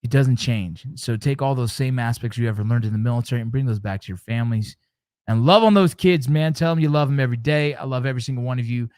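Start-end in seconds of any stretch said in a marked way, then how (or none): 5.3-7.7 raised, louder plea; heartfelt urging. Real, not acted. Dad urging military parents to love their kids, raised and louder. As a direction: push it out from the heart.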